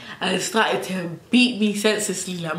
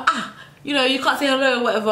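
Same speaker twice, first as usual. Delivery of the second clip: high teasing mum voice; mom voice; 5 semitones higher, faster than usual. Retold or imitated. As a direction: lightly imitate a sulky mother. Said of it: "she was like".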